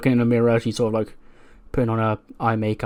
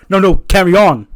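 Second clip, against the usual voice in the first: louder, higher sarcastic "no, no, carry on"; mock polite; 7 semitones higher, 10 dB louder than usual. AJ Styles sarcastically inviting Ricochet to continue, mock polite. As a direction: wave him on with fake courtesy.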